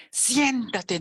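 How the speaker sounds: impatient mom command. Shown as a demonstration. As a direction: order the child to sit, no nonsense. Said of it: "La mamá así como que ya".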